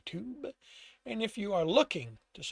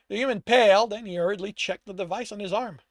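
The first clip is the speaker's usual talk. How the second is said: measured, dramatic storyteller read; story narration; 2 semitones higher, 8 dB louder, faster than usual. A narrator's reading. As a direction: narrate the scene with emphatic phrasing. Reads own story aloud.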